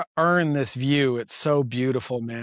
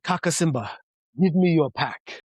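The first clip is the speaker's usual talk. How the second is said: put-on Tanzanian accent; 3 semitones higher than usual. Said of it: "I apologize for how I'm about to fuck this accent up".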